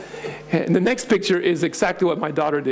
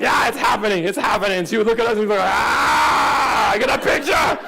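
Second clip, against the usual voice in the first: she can't contain her joy; thrilled girl; 6 semitones higher than usual. Retold or imitated. Daughter calling to family, high and thrilled.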